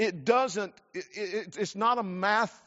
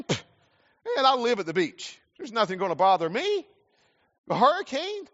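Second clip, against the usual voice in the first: brash, higher, know-it-all swagger; cocky beach local; 4 semitones higher than usual. Retold or imitated. Preacher mimics a careless beach local, cocky and high. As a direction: shrug off the storm like nothing can touch you. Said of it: "the attitude is this".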